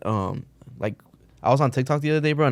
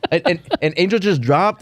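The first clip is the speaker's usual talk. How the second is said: mock vlogger; 5 semitones higher than usual. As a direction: draw it out like a vlog. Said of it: "vlogger voice continues".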